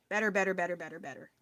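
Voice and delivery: "better" repeated with the T flapped into a quick D. Shown as a demonstration. Streamer testing their own accent aloud, T like a D. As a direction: rattle off "better", each middle T sounding like a D. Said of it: "I sound like there's a D".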